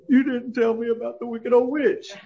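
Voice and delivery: put-on high little-girl voice, reproachful; little daughter. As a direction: play the hurt five-year-old. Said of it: "She said".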